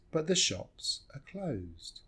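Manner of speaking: "are" in "But the shops are closed" shrunk to uh; slow, soft phrase with "are" as schwa; reduced "are". Shown as a demonstration. Teacher modelling the second line, reduced "are". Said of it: "So we just say".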